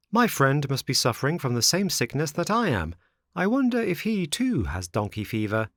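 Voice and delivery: lightly voiced puppet, wondering privately; a hint of a curious marionette; marionette thinking to himself.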